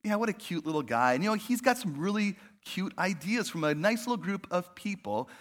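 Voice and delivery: patronising, head-patting tone; a hint of smug condescension; condescending. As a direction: talk down as if to a child. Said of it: "kind of patting their heads".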